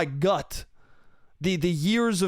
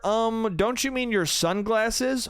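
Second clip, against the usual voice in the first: slow, higher know-it-all query; mock someone correcting you condescendingly; pedantic correction; 4 semitones higher, slower than usual.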